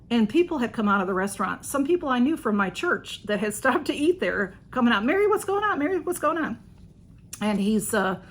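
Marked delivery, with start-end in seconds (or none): 5.0-6.6 calling out. Retold or imitated. Church friends calling out.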